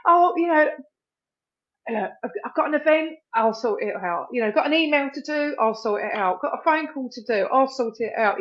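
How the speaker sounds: bright cheerful "I'll handle everything"; cheery can-do. Retold or imitated. People pleaser piling on tasks.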